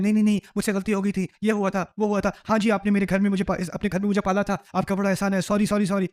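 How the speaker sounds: mock defensive pharaoh. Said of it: "وہ شاید defensive ہو جائے".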